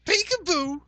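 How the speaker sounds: high, sing-song creepy peekaboo. Pretend. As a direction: tease it like a lurking stalker. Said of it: "we've turned Paul into quite the fucking creep".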